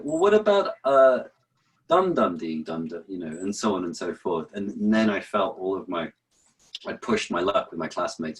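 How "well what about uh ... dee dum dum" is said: high, eager mock student voice; pushy student pitch. Student pestering the teacher, high and eager. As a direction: push your luck with the teacher. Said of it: "I was like".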